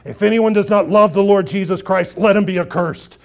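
loud, forceful scripture reading; abrasive declaration. Acted. Paul adds a warning in his own hand, loud and abrasive. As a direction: proclaim it hard and loud, as a stern warning. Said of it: "You might think that sounds abrasive".

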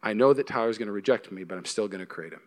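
God tenderly choosing a person who will reject him. Acted. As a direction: speak it gently as God would. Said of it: "a God who says".

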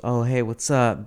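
lightly put-on flirtatious hello; playful eyebrow-raise in the voice; flirty greeting. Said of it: "Doing the eyebrow".

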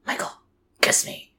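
toneless, muffled mock request; voiceless mumbled imitation; imitated mouth full. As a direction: talk as if holding a snail in the mouth. Imitating Angela with snail in mouth.

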